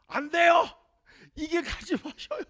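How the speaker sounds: high desperate plea; high urgent pleading; Peter protesting. Acted. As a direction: grab his arm and beg. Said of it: "이렇게".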